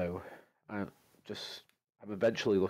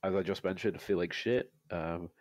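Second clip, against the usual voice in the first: stuffy nose from a cold; nose fully blocked, sick voice. Real, not acted. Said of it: "got a cold, can't breathe through my nose".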